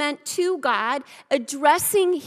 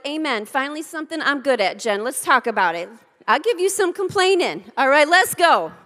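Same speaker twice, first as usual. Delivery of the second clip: eager complainer; 6 dB louder, faster than usual. Retold or imitated. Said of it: "some of you are like".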